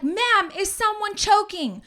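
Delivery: high, loud, slow question; urgent questioning. Retold or imitated. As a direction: imitate a paramedic checking urgently. Retold paramedics questioning her.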